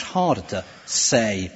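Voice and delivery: "say" set apart with weight; stress on SAY. Shown as a demonstration. Preacher contrasting the harder claim, stress on "say". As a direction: hold back, then land on "say". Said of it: "if you emphasize it like that".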